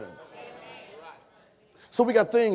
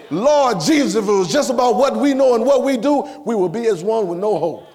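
preaching shout; 3 semitones higher, 4 dB louder than usual. Acted. Preaching climax, calling out.

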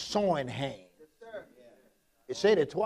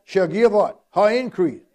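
forceful scripture reading; 6 dB louder, slower than usual. Acted.

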